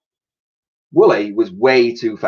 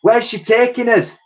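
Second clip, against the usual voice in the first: higher anxious question; worried old lady; 11 semitones higher, 4 dB louder than usual. Acted. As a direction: ask over the rushing wind. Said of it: "asked Dotty".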